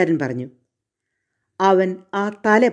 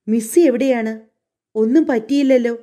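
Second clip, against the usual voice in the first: worried driver asking; 5 semitones higher than usual. Acted. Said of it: "വണ്ടിക്കാരൻ അന്വേഷിച്ചു".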